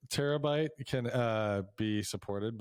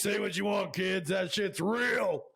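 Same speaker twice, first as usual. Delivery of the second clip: mock spooky warning; 7 semitones higher, slower than usual.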